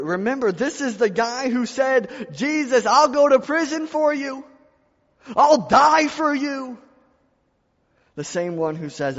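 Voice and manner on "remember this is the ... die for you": preacher voicing Peter's vow to Jesus; soaring preaching. Preacher quotes Peter's boast.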